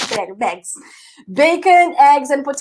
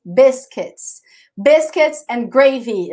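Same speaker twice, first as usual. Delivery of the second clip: slow, careful English for repeating; slow model pronunciation; much slower than usual. Shown as a demonstration. Teacher reading a menu item slowly for students to repeat. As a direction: model the phrase slowly for the class.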